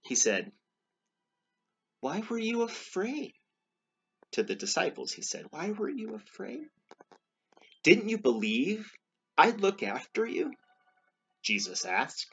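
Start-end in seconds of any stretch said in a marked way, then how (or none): 2.0-3.3 high-pitched storybook question; voiced Jesus questioning. A narrator's reading. Jesus to the disciples after the storm, questioning. 5.5-10.5 high question growing louder; voiced Jesus questioning. A narrator's reading. Jesus reproving his frightened disciples, questioning.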